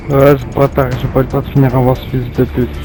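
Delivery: yelling insults at the screen; furious shouting gamer; raging gamer. Real, not acted. Furious player in voice chat.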